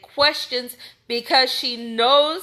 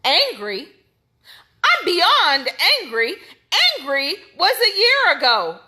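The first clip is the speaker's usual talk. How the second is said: quoting defiant anger; 5 semitones higher, 3 dB louder than usual. Retold or imitated. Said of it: "what she told him".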